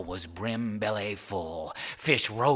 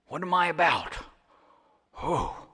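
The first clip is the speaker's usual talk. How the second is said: lightly voiced puzzled Charlie; 8 semitones higher than usual.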